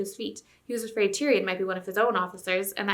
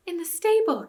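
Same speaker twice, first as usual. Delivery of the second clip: high and louder, laughter bubbling under; a girl trying not to giggle; gasping, holding back laughter; 10 semitones higher, 5 dB louder than usual. A narrator's reading. Jill answers Eustace, stifling a laugh. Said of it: "gasped Jill, but ... with suppressed laughter".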